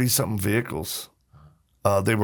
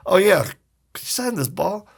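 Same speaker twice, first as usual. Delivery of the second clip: put-on higher, eager little-kid voice; 8 semitones higher than usual. Kid asking Willie Mays to sign, eager high voice. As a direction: ask shyly but hopefully.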